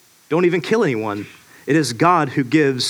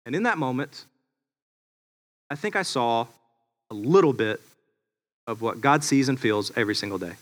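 hushed reflection; 4 semitones lower, 6 dB quieter than usual. Real, not acted. Quiet reflective turn.

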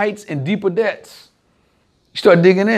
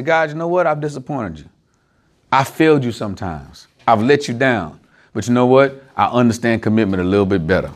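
lower-pitched, understated acted confession; humble confession; 5 semitones lower than usual. Preacher models admitting failure to God, humbly confessing. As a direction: own up gently, as if praying.

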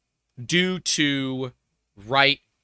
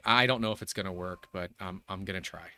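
very soft, low resolve; deflated; 6 semitones lower, 8 dB quieter than usual. Real, not acted. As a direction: trail down to a small, beaten voice. Upset, forcing self to continue.

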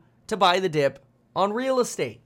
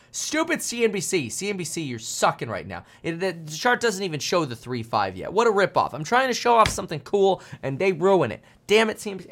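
half-joking anger. Real, not acted. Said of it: "I'm too angry this morning".

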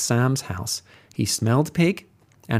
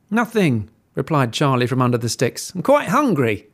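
little pig. Acted. Pig Charlie answering.

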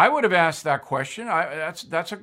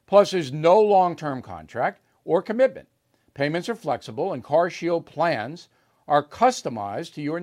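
upbeat host-read ad voice; 3 dB louder than usual. Acted. Host pitching sponsor to listeners, ad read. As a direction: sell it like a radio ad spot.

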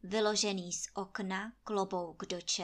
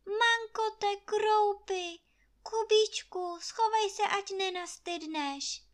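squealing; 11 semitones higher, 4 dB louder than usual. A narrator's reading. Maid squealing at Kuba to hide from the hail, high. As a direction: shriek at the hailstones falling. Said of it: "vyjekla Anče".

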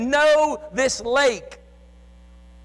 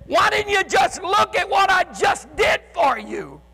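rebuking Jesus; 8 semitones higher than usual. Acted.

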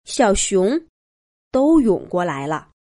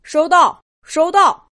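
higher, brisk acknowledgement; chief answering radio; 7 semitones higher, 4 dB louder than usual. A narrator's reading. Police chief replying to Labrador's emergency call, urgent and high. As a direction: confirm receipt over a walkie-talkie, pitched up. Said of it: "拿着对讲机说道".

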